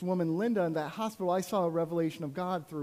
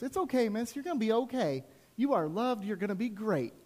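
higher-pitched, encouraging voice of a stranger; imitated reassurance; 6 semitones higher than usual. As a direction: comfort her in a raised, lilting voice. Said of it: "the guy next to me goes".

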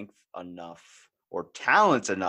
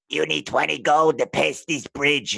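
gruff troll demanding a toll, loud; a hint of a troll blocking the bridge; 6 semitones higher, 8 dB louder than usual. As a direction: play the troll guarding the bridge. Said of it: "What does he sound like?".

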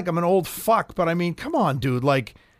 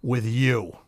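fed up; 3 semitones lower, slower than usual. Retold or imitated. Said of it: "he went just like this".

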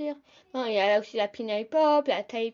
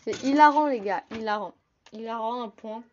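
sarcastic; 4 dB louder than usual. Real, not acted. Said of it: "agaçant quand tu vois ce genre de réflexion".

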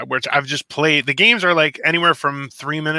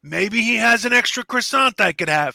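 chirpy friendly voice; 9 semitones higher than usual. Pretend. Acting friendly airline neighbour.

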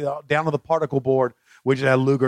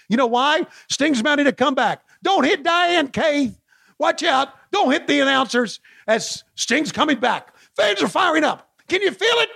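high, hyped-up play-by-play; frantic mock sports commentary; 13 semitones higher than usual. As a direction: call it like a frantic announcer.

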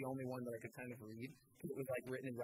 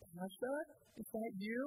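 put-on shaky Russian accent; 8 semitones higher than usual. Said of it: "like, this shaky Russian voice".

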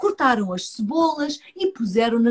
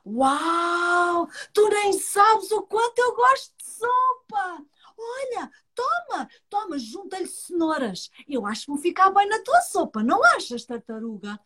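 rabbit voice; 6 semitones higher than usual. Acted.

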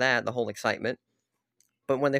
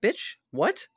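higher, outraged snap; angry disbelief; 7 semitones higher than usual. Real, not acted. Reacting to the dropped updates, angry. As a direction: fire it off in shocked anger. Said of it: "I'm so angry".

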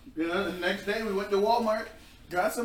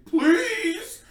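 pleading; 14 semitones higher, 7 dB louder than usual. Retold or imitated. Begging the boyfriend again.

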